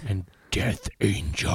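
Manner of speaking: slow, low, drawn-out band name; band-name announcement. Pretend. Co-host listing the show's bands, slow dramatic announcement.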